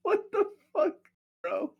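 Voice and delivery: high, loud disbelief; shocked outburst. Real, not acted. Shocked reaction to joke.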